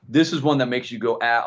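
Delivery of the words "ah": short, restrained "ah"; inward gasp. Retold or imitated. Describing a film that shakes you inside, restrained "ah". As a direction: hold the mock scream inside. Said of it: "on the inside and go".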